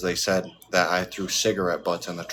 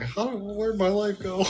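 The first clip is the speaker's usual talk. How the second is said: imitating crying dad; 13 semitones higher, slower than usual. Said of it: "He's like".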